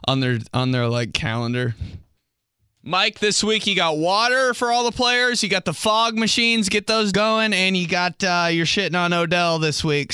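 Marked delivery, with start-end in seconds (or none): 2.8-10.1 higher, brisk team briefing; briefing boss. Retold or imitated. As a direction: rattle off duties like a coach. Staff boss giving orders.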